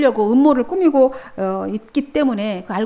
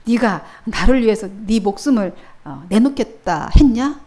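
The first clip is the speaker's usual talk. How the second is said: 단호하게; 6 dB louder than usual. Acted. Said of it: "아주 단호하게 말씀하십니다".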